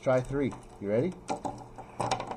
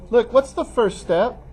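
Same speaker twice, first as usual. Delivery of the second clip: slow, higher and louder, pressing the class for the answer; emphatic prompt; 9 semitones higher, 7 dB louder, slower than usual. Real, not acted. Teacher presses the class on the first step, slow and loud. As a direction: drag the question out to make them think.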